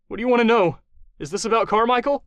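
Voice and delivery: high, loud frightened questions; scared voice cracking upward; fearful pleading tone; terrified captive. Acted.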